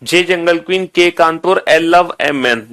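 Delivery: chant-like memorization drill; projected teacher's rote recitation; recite out loud. Shown as a demonstration. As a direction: run through the list aloud, item after item. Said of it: "जोर जोर से बोल के".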